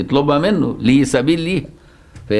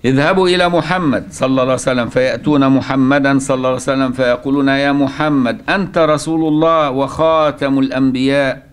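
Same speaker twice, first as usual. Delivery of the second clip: formal hadith recitation. Acted. Teacher telling how the Prophet prostrates before God, formal recitation. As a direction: draw out the phrases as in solemn recital.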